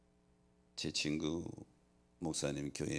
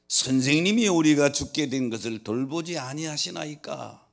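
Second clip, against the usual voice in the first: preacher's loud, raised-pitch quoted plea; urgent pleading; 8 semitones higher, 10 dB louder than usual. Retold or imitated. Disciples waking Jesus in the storm, urgent pleading quoted by preacher. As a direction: cry out the quote as scripture, mildly urgent.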